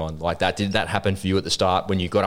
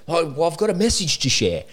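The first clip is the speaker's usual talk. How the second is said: much higher, eager put-on voice; mock protest; 10 semitones higher than usual. Podcaster answering his doubting missus, high mock protest. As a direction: plead it in a lifted, playful pitch. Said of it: "I'm mocking her".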